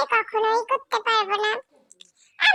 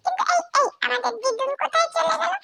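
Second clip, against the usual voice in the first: surprised call; 5 semitones higher than usual. Pretend. Dog voice notices granny leaving.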